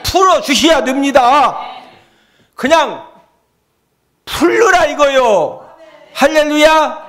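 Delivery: high, loud pleading prayer; fervent prayer preaching. Acted. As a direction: cry out to God with force. (높고 크게 부르짖는 기도)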